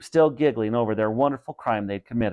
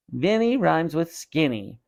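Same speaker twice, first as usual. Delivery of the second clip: dummy voice; 5 semitones higher than usual. Acted. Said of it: "he made the dummy say".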